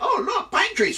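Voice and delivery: high, loud gleeful taunt; mock delight. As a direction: sing out a cruel little discovery. Eagle gleefully taunts Loki.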